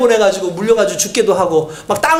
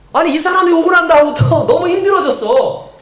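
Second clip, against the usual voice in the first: higher-pitched, mildly exasperated complaint; acted grumbling; 5 semitones higher than usual. Israelites resent Moses over added work, acted grumbling. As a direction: lightly play a put-upon worker grumbling.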